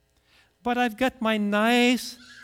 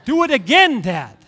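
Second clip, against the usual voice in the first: loud, excited child imitation; eager little boy; 3 semitones higher, 8 dB louder than usual. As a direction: beg Dad like a thrilled small boy. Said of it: "swallows it and says".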